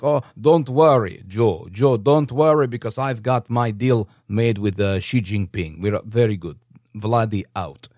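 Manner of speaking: slow, put-on leader's voice with heavy emphasis; slow, weighty, mock-reassuring delivery; Putin. Putin reassuring Joe about his deal, slow put-on voice. Acts Putin's reply to Biden.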